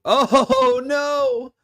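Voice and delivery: high, loud laughing cry; laughing shock. Real, not acted. Streamer watching Panthers play, laughing in shock. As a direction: laugh out a stunned oh no.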